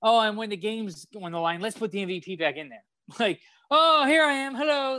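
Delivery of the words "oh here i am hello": much higher, breezy mock hero entrance; mock cheerful quarterback. Mock star quarterback greeting everyone, high and breezy. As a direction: play the star strolling back in.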